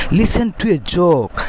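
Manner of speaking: very slow, drawn-out invitation; story reading with intonation. Shown as a demonstration. Wise man invites villagers to a joke, intoned reading. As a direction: stretch each word for learners. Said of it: "গল্পটা intonation সহকারে পড়ি".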